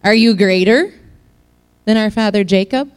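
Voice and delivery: sassing back. Retold or imitated. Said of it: "I'm gonna sass back a little bit".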